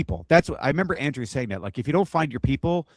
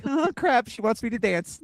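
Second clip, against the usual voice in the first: mock panic; 9 semitones higher than usual. Dreading a dance request.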